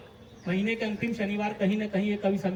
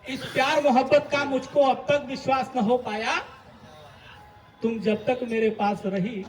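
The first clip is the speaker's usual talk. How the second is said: poetry recitation; 3 dB louder than usual. Acted. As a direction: recite the refrain to a live audience. Recites a poem on stage. (कवि सम्मेलन वाला कविता पाठ)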